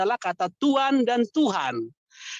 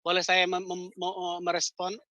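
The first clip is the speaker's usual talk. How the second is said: faint, distant voice far from the mic; phone held away; 5 semitones lower, 6 dB quieter than usual. Real, not acted. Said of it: "Suaranya pelan". (suara jauh dari telepon)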